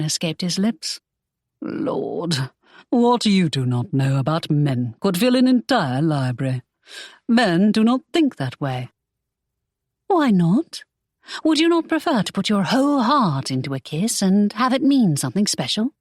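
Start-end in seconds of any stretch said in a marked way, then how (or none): 1.6-8.9 a hint of exasperated man; Draco, exasperated. 10.1-15.9 put-on higher, earnest young woman; lightly voiced heroine; Imogen, earnest. Imogen, idealistic.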